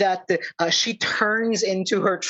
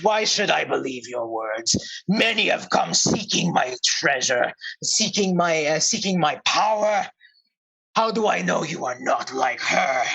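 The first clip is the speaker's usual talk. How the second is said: distrustful cursed royal in bear voice; skeptical bear. Acted. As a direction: question them with grand, growly suspicion. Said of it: "looks skeptically at the, all of you".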